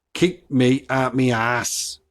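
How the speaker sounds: slow Black Country phrase, "out" as "at"; Black Country accent. Shown as a demonstration. Podcaster decoding a local saying, slow Black Country accent. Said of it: "which means".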